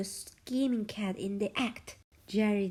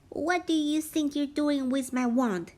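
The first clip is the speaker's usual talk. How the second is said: a lightly voiced indignant witch, half whispered; Hilda, mildly hammed-up angry demand; exclaiming witch; 4 semitones higher, 5 dB louder than usual. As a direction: scold the mouse like a cross witch. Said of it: "exclaimed Hilda".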